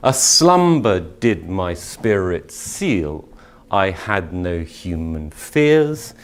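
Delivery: slow, lingering verse reading; poetry recitation. Shown as a demonstration. Teacher reading Wordsworth aloud, slow and savouring. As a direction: savour every beat of the line.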